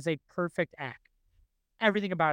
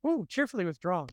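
Sideshow Bob's line. Retold or imitated. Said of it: "the way he says that".

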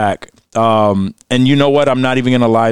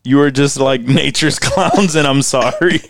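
mock solemn quote. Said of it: "That's a soundbite".

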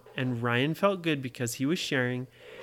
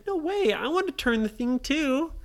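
indignant refusal; 10 semitones higher than usual. Acted. Nora refuses Ryan's trade.

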